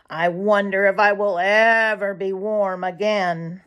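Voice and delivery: a hungry jay begging a place; meek polite jay. Acted. Sammy Jay speaks.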